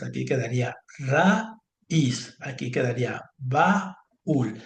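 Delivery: slow dictation. Shown as a demonstration. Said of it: "¿cómo voy a separar estas?".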